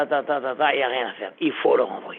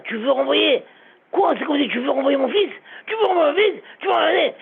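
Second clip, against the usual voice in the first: raised, higher indignant shouting; crying out; 7 semitones higher than usual. Acted. Rabbi shouts at the Rosh Yeshiva, indignant. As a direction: demand it, outraged and pained. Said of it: "le rabbi a commencé à crier comme ça".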